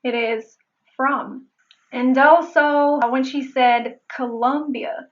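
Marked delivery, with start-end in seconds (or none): 1.0-1.5 from with an English r. Shown as a demonstration. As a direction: correct English from. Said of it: "It is not correct in English".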